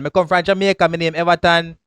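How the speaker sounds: broad Jamaican patois, words rolled loose; Jamaican accent. Shown as a demonstration. Man from Jamaica shows his real accent off. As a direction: drop into full Jamaican patois for him. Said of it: "Talk like one Jamaican".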